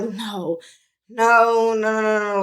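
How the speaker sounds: rising, drawn-out refusal, retold; stunned denial. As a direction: relive refusing to believe it. Retelling disbelief at terrible news.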